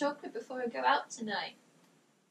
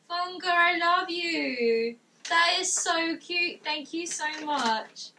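drawn-out, heartfelt thanks; touched, affectionate; slower than usual. Real, not acted. Streamer to fan after a sweet card, lovingly touched. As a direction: linger on the words with real affection.

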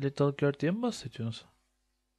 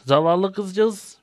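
mock pity; 6 semitones higher, 9 dB louder, much slower than usual. Real, not acted.

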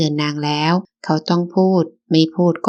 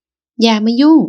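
loud, higher "keep out" snap; angry snap; 5 semitones higher, 5 dB louder, much slower than usual. Acted. Wife snapping at husband to stay out of it, angry and loud. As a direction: shove him off with the words.

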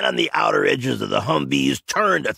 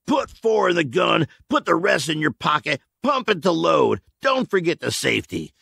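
quick, raised commands; hurried instructions; 7 semitones higher than usual. A narrator's reading. Michael to Brad, hurried raised orders. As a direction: rush the kid through it. Michael arming the kid hastily.

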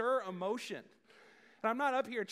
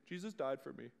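quieter, throwaway delivery; casual; 7 semitones lower, 7 dB quieter than usual. Shown as a demonstration. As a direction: say it like it means nothing. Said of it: "just say that really casually".

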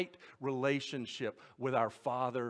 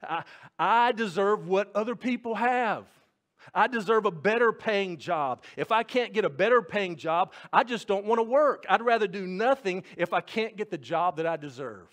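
entitled complaint; 4 semitones higher, 6 dB louder than usual. Retold or imitated. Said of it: "Do any of us struggle with that?".

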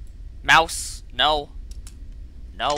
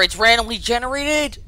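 higher-pitched, incredulous realization; 6 semitones higher than usual. Real, not acted. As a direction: pitch lifting in disbelief. Surprised at randomly placed book.

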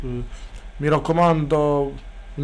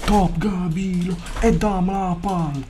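crowd yelling; 4 semitones higher, slower than usual. Pretend. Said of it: "Il pubblico urla".

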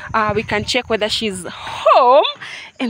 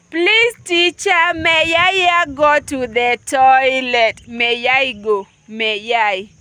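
put-on a light child's begging, slow; mildly pleading child asking the teacher; childish plea; 4 dB louder, slower than usual. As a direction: beg the teacher like a small pupil. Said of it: "You are like".

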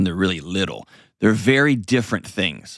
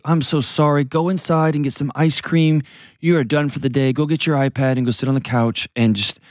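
coddling parent; 4 semitones higher than usual. Retold or imitated. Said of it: "Coddling is".

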